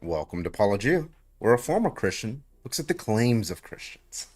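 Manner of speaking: mock-announce his catchphrase intro; Paul Gia. Host mimics a YouTuber's channel intro for chat, mock announcer. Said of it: "What's his line?".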